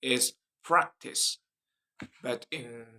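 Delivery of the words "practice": American "practice" with the A of "cat"; American accent, front A in "practice". Shown as a demonstration. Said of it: "In American accent".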